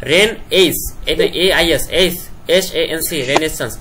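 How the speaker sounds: রেন এইস, then A I এস, এস A N C; sounding out words. Shown as a demonstration. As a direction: spell রেনেসান্স in chunks, then letters. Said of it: "বানান করার সময় বলবা".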